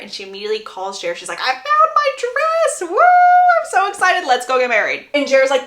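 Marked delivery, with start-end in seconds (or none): 1.4-5.1 hammed-up bride-to-be bursting with news; very excited. Belly calling Jer about finding her dress, very excited. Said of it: "she's very, very excited over it".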